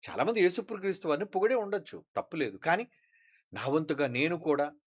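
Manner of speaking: ordinary talk, nothing marked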